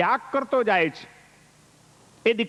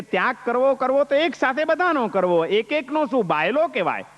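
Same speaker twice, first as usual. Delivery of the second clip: mock scornful retelling; 4 semitones higher than usual. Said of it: "પેલા એમ કીધું કે".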